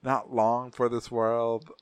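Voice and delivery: very slow, drawn-out mock dying words; dying old man. Old dying patient in the next bed, slow lament. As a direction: drag it out like a fading old man. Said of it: "he just kept saying that".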